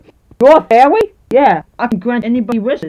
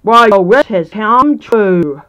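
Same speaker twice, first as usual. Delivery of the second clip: slow magical voice; 2 semitones lower, 3 dB louder, much slower than usual. Acted. Magical fairy appears.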